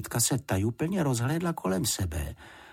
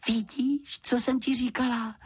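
put-on much higher gleeful girl; girl delighted the housekeeper likes him. A narrator's reading. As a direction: crow it happily. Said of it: "zaradovala se Juditka".

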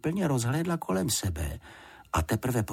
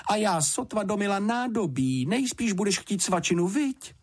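much higher bustling motherly voice; fussing housekeeper; 12 semitones higher than usual. A narrator's reading. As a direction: chatter on like a flustered housekeeper. Housekeeper voice held.

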